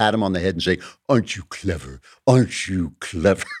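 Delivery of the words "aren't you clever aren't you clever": incredibly condescending, patronizing, talking-down tone. Advising the audience how to answer a guy, in an incredibly condescending voice. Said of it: "with an incredible condescending voice".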